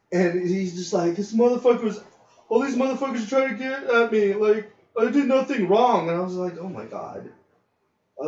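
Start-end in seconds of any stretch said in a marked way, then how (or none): 1.2-6.1 put-on higher whiny kid voice, wounded; upset kid. Crying kid complaining. 6.6-7.3 soft breathy oh my god; whispered exasperation. Retold or imitated. Exasperated at the scene.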